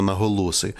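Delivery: "наголоси" deliberately stressed on the third syllable, ло; jokey misplaced stress. Shown as a demonstration. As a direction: joke term "наголоси" with the stress wrongly on ло. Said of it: "спеціальний жартівливий термін".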